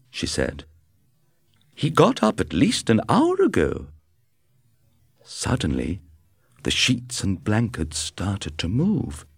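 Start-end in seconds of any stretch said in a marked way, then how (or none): 1.7-3.9 higher wife voice; a touch of the worried wife. A narrator's reading. Wife speaks after feeling sheets.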